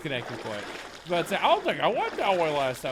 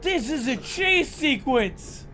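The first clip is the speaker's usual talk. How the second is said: surprised; 8 semitones higher, 4 dB louder, slower than usual. Real, not acted. Realising a chase begins.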